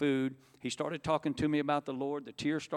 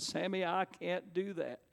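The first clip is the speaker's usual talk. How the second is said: soft, slow, higher-pitched protest; under the breath; 4 semitones higher, 6 dB quieter, slower than usual. Retold or imitated. Weeping sinner refusing his brother's invitation, under the breath. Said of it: "under my breath".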